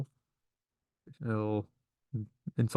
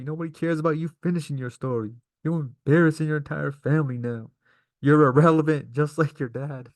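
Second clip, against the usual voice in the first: mad taunt; 5 semitones higher than usual. Retold or imitated. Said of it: "Roman Reigns is all mad and stuff".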